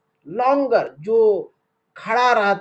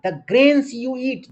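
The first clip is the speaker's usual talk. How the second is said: very slow, word by word; slow reading; 6 semitones higher, 4 dB louder, much slower than usual. Shown as a demonstration. Teacher reading the textbook line to children slowly. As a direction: read it out slowly for the class. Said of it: "slow read of the line".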